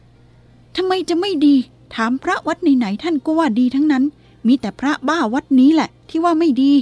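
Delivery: high, loud indignant snapping; shrill snap. A narrator's reading. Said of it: "ส่งเสียงแวดขึ้นว่า". (ตวาดแหวเสียงสูงดัง)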